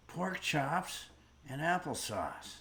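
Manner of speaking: a badly done mock Bogart tough-guy line; terrible Humphrey Bogart. Shown as a demonstration. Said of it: "That was a terrible Humphrey Bogart".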